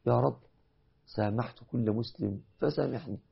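leading a supplication; prayer. Acted. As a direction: pray it gently with them. Leads congregation in prayer.

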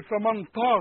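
"فمن طا" with a heavy emphatic ط, the wrong way. Shown as a demonstration. Teacher showing the wrong emphatic ta. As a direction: say "طا" thick with emphasis. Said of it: "طا بالطاء مش قرآن".

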